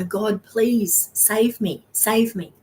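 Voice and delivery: slow, drawn-out plea to God; mock drowning man's plea; desperate pleading. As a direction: beg like you're going under. Drowning man begs God.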